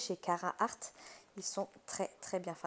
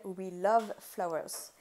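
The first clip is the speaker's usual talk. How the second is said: self-mocking English accent, slow; super English accent; 4 dB louder, much slower than usual. Real, not acted. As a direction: say the name with a hammed-up English accent, slowly. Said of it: "avec mon super accent anglais". (accent anglais exagéré, un peu moqueur)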